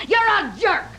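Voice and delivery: shouted insult; shouting match. Acted. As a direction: yell the insult at him. Wife insults husband in quarrel.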